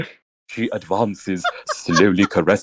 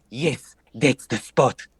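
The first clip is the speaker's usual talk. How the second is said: Natalaya; 2 semitones higher, slower than usual. Acted. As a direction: drag it out slowly and seductively. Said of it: "As Natalaya".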